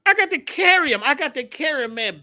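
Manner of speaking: high-pitched, comic dismay; exasperated protest. Retold or imitated. Drummer must carry heavy congas to the stage, exasperated. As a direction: start loud and high, then ease.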